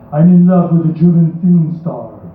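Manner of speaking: vaguely foreign, deliberately bad Hollywood accent; hammed-up bad movie accent. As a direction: recite it in a terrible fake accent. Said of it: "read it in a very bad accent".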